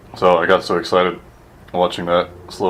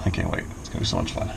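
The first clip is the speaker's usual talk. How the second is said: sarcastic; 10 dB quieter, faster than usual. Real, not acted. Dreading gasoline mess, ironic.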